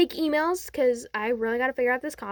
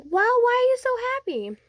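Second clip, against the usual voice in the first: high, quick, acted bewilderment; puzzled question; 11 semitones higher, faster than usual. Deku asking why you're so happy, high puzzled voice. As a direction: ask it in a pitched-up, hurried voice.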